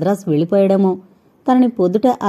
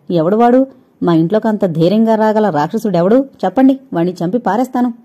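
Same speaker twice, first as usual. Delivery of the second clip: angry outburst. Acted. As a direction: fume and vow to kill the intruder, speeding up. Brother threatens the intruder.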